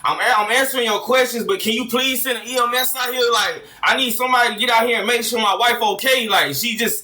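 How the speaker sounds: acted-out urgent emergency call; imagined panicked caller. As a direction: plead for help as a worried partner. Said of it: "we gonna be on the phone with the police".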